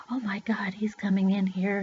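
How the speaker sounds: hushed, whispered retelling of hiding; frightened whisper. Retold or imitated. Child hiding from the man coming in, frightened whisper. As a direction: whisper it, afraid of being found.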